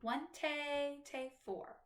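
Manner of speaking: "one, tay, tay, four" counted out with an off-beat "tay"; counted syncopated rhythm. Shown as a demonstration. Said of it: "It would be counted".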